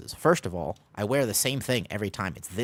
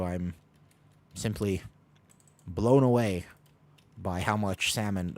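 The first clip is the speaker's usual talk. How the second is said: sarcastic flattery. Pretend. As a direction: lay on fake charm, mostly in own voice. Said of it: "I'm being sarcastic".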